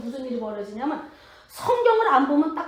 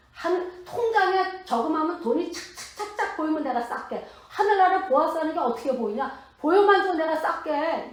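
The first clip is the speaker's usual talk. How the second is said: mocking retort; 4 semitones higher than usual. Mocking retort to pious sister.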